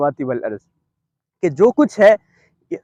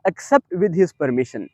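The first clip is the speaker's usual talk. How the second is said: slow emphatic translation; 4 semitones lower, 4 dB quieter, much slower than usual. Acted. Slow translation of key phrase.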